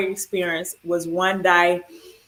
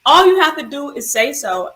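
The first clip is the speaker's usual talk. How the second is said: high, louder voice of the mother; mother at bedside, voiced high and loud; mom's voice; 8 semitones higher, 5 dB louder than usual. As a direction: voice mom gently insisting. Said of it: "she was like".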